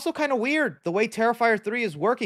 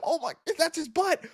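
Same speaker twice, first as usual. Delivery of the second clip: high, giggly laughing exclamations; giggling reaction; 12 semitones higher than usual. Retold or imitated. Streamer reenacting his own giggling at the kills. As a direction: laugh through it like gore delights you. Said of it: "I can't help but to giggle and go".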